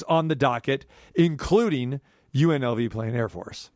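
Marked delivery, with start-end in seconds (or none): 2.3-3.7 slightly deflated drop in the voice; voice dropping. Real, not acted. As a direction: let the voice sink a little on the team names. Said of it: "notice how my voice drops a little bit there".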